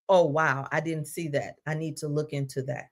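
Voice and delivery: low, subdued, uneasy admission; uncomfortable response. Acted. Person uncomfortably answering someone who points out their blind spot. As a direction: drop low and soft, uncomfortably taking it in. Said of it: "the response is uncomfortably".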